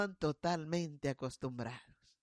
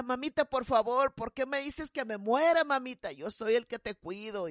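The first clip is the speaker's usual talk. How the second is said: pleading son; 3 semitones higher than usual. Retold or imitated. Kneeling son begging his mother, lightly voiced pleading. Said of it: "él hincado le decía".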